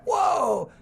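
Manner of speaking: high, loud gasp of wonder; be amazed by the fish; surprised whoa. Acted. Girl amazed when a fish appears, surprised.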